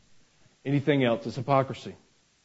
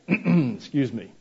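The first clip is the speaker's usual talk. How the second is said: polite; slower than usual. Retold or imitated. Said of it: "real polite".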